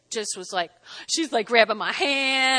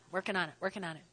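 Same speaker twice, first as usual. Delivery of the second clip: fading mutter; 7 semitones lower, 14 dB quieter, much faster than usual. Shown as a demonstration.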